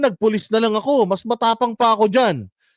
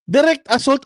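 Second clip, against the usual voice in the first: incredulous; 5 semitones higher than usual. Real, not acted. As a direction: throw the charge back in disbelief. Incredulous repeat of charge.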